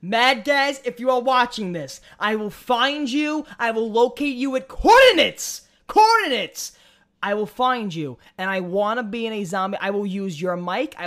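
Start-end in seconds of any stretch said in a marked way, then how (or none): 0.0-6.7 loud hammed-up menace; mock threat. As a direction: play a cartoon stalker. Mock threat to Mad Gaz.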